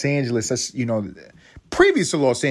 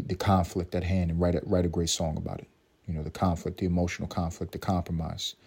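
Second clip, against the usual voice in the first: serious critic tone; 3 semitones lower than usual. Pretend. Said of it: "I don't know why I'm talking like this".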